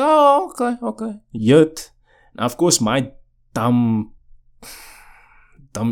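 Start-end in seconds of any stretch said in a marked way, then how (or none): 0.0-1.2 mock brushed-off reply. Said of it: "I was like".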